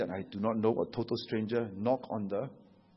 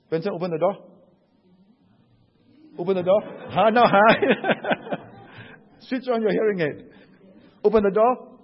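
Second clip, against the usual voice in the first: loud, higher, impatient command; insistent wife; 6 semitones higher, 7 dB louder than usual. Retold or imitated. Wife on the phone telling Benson to open the door, loud. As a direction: order him to open the door.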